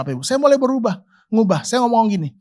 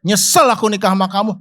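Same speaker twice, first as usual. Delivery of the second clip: mock insult to wife. Shown as a demonstration. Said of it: "kalau suaminya bilang gini".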